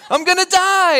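high, loud mock wail through a laugh; dramatic child. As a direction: overplay the kid's despair, laughing.

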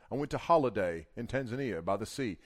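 lightly imitated Ugandan judge; burly judge. Judge telling the wife his story, lightly imitated accent. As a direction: retell it as the judge, hint of accent. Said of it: "and a really cool accent".

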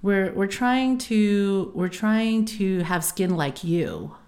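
slow, lightly voiced dad; imitating dad. Daughter imitating her dad's translated words, slow. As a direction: drag it slowly like dad. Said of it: "it translates to".

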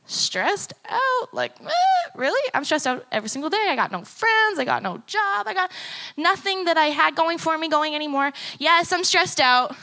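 high, disbelieving echo then venting; incredulous rant. Retold or imitated. Answering the doctor with a high, disbelieving outburst. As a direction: scoff at the question, then unload.

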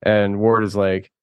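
ordinary talk, nothing marked

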